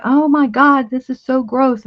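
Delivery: freaking out. Retold or imitated. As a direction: re-enact a mild freak-out over something gross. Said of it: "I used to freak out".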